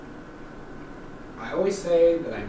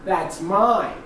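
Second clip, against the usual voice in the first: firmer demand; 5 semitones higher, 3 dB louder, much slower than usual. Retold or imitated. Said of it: "And I was like".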